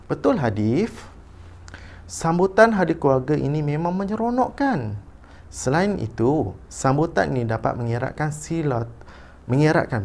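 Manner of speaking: measured read-aloud with lifted intonation; expressive reading. Shown as a demonstration. Teacher models a father's reply for pupils, expressive reading. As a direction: model the dialogue with clear rises and falls. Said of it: "baca dahulu petikan dengan intonasi".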